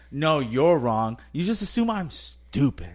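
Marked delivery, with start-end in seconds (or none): 0.1-1.2 slow dismissive "no, you're wrong". Retold or imitated. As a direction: brush him off slowly. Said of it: "the way you said".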